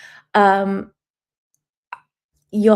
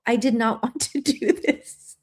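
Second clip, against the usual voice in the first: laughing through tears. Real, not acted. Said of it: "I did not want to cry on here".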